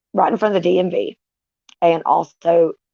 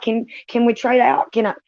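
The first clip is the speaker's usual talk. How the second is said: higher, bargaining plea to God; half-joking plea, pitched up; talking to God, begging for a trade; pleading to God, raised pitch; 5 semitones higher than usual. Retold or imitated. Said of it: "asking God, like".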